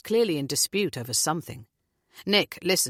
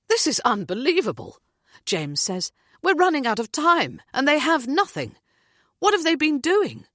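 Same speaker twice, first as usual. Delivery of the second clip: higher and louder, furious father; incensed rant; exasperated outrage; 9 semitones higher, 5 dB louder than usual. A narrator's reading. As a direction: vent disbelief at the police. James outraged at police.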